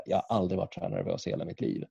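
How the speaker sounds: soft, hurried confession; retold starstruck nerves; nervous, barely speaking. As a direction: get it out quickly and quietly. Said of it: "jag kunde knappt prata".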